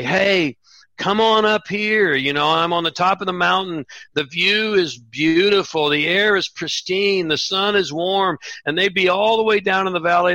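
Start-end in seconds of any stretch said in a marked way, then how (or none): 0.0-8.4 inviting call. Retold or imitated.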